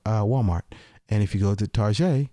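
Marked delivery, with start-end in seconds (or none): 1.7-2.3 "Target" said as tar-ZHAY; mock-French pronunciation. Host pointing listeners to store deals, "Target" said mock-French as tar-ZHAY.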